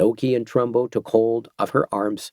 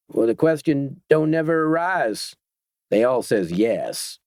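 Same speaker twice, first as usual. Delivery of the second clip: sly biker captain; 4 semitones higher than usual. Acted. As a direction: play the smug biker leader explaining the new order. Voicing the gang captain.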